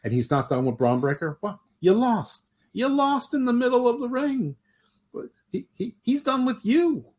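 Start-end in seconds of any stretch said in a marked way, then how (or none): 1.4-7.1 mock taunt. Mock taunt at Braun Breaker.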